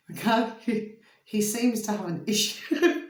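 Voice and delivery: words broken by giggles; trying to speak through laughter; laughing. Real, not acted. Laughing at client's odd problem.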